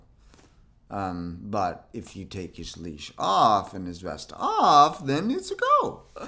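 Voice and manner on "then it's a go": very high, playful voice. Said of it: "that's definitely my off-vest voice".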